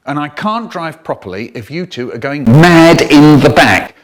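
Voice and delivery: loud exasperated scolding; loud mum telling off. Retold or imitated. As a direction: tell off the kids loudly. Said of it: "mother scolding retold".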